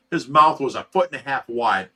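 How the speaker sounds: ordinary delivery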